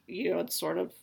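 normal talking voice

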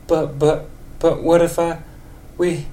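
put-on high old lady voice, scared. Old lady Marge tells Ned she's scared. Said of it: "old lady for Marge".

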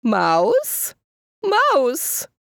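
rising questioning call; calling softly. A narrator's reading. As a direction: call into the hole. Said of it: "She peeked inside and called".

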